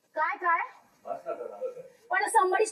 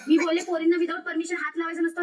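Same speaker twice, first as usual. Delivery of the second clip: said again louder and firmer, each word clear; repeated louder; 3 semitones lower, 4 dB louder than usual. Real, not acted. Repeating her point louder to the housemate who asked, firm. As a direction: repeat it louder so nobody misses it. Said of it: "काय बोलली का?".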